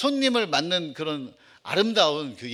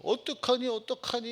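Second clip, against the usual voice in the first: high-pitched imitated wail of grief; mock wailing mourners; 8 semitones higher than usual. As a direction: voice the mourners crying out in despair. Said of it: "꺼이꺼이 울고 있는 거예요". (곡하는 사람들을 흉내 낸 높은 울음 섞인 탄식)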